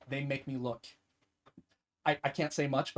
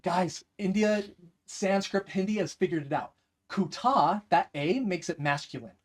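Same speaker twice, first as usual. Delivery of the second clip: mock lecture; 3 semitones higher, 4 dB louder than usual. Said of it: "stupid jokes where I'm like".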